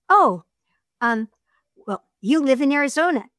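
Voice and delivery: a light lift for the woman; woman's voice, Kathy. Shown as a demonstration. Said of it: "you have to change your voice".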